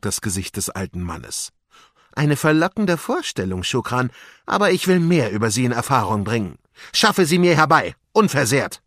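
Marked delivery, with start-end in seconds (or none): 2.1-8.8 louder villain, ending in firm orders; scheming vizier, commanding. Acted. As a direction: issue orders as the master. Wesir befiehlt seinem Diener. (herrisch befehlender Wesir)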